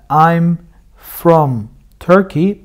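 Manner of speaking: I'm from Turkey said slowly, from in full; careful slow I'm from Turkey. Shown as a demonstration. Teacher reads the careful slow version for students. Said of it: "hızlı okuduğunda".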